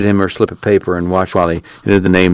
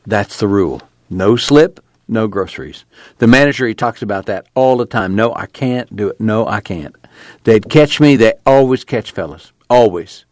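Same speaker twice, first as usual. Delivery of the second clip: lightly voiced nervous clerk; 2 semitones higher than usual. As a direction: plead the rule, afraid of getting canned. Clerk pleads, afraid of rules.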